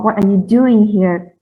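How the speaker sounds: "doing" stressed as the action word. Shown as a demonstration. Presenter showing emphasis on the action, stress on "doing". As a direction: lean on "doing" in the question. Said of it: "It's with emphasis on the accent".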